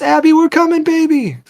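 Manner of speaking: high, urgent mother's shout; frantic high-pitched call. Acted. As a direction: shout to your child through a fire. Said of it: "Sarah shouts".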